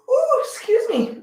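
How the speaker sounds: laughing apology. Real, not acted. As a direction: laugh it off through a yawn. Yawns mid stretch.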